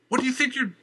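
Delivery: high, cut-off scream. Acted. Valerie screams as her dresses are cut. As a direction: shriek it in outrage. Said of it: "she screamed".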